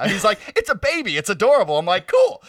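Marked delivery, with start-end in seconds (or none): 0.6-1.8 put-on higher, cooing over a baby animal; gushing dad. Dad showing off the baby skunk, cooing high. 2.1-2.4 leaps very high and bright on one word; a cracked, excited cool; squeaky cool. Retold or imitated. Narrator answering the dad, squeaky high cool. His own quoted reply.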